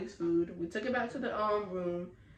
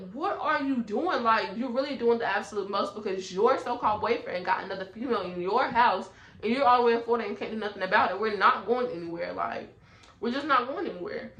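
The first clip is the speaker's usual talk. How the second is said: retold angry telling-off; 2 semitones higher, 4 dB louder than usual. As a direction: tell her off like you're back in that hotel room. She retells yelling at Lola.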